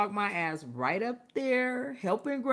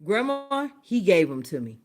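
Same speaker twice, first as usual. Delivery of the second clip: outraged accusation; 6 semitones higher, 7 dB louder than usual. Retold or imitated. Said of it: "I was like".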